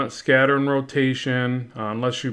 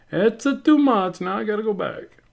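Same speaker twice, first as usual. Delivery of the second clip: exclaiming; 9 semitones higher than usual. Pretend. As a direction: burst out in playful alarm. Acting out own inner realisation.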